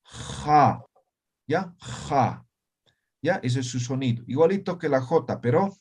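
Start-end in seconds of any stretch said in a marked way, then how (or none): 0.0-2.4 "Ja" rasped in the throat; fricative ja. Shown as a demonstration. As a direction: scrape out the "Ja". ("ja" fricativa, raspada)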